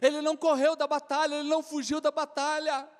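normal talking voice

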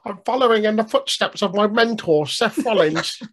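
a hint of a proud protégé; Fraser impression. Co-host lightly mocking Fraser praising his mentor. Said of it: "I don't know why I'm making him".

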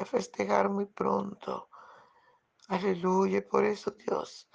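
loud, fervent preaching with ringing aleluyas; preaching at full force. Acted. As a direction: proclaim it to the congregation, building. Predicación con fuerza. (predicación ferviente y en voz alta)

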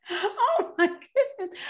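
slow, high, laughing through it; can't stop giggling at the joke; breathless laughing exclamation. Real, not acted. Laughing after the punchline.

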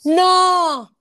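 high, drawn-out cry of shock; real amazed disbelief. Real, not acted. Star seeing her cover revealed, astonished. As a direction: squeal it in stunned delight.

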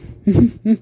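small high chuckle; brief closed, smiling laugh; smiling giggle. Acted. Aunt pleased to help her nephew, giggling. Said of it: "she said with a smile".

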